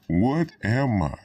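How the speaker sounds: slow, high-pitched existential question; retold childhood question. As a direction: draw it out with a rising swoop. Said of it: "when I asked that question".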